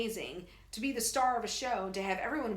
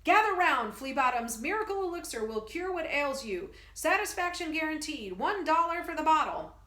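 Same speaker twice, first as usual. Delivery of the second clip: loud, higher carnival sales call; booming barker; 5 semitones higher, 4 dB louder than usual. Acted. Professor hawking elixir to soldiers, booming barker. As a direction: hawk the bottles to the crowd. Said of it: "golden voice booms into the night".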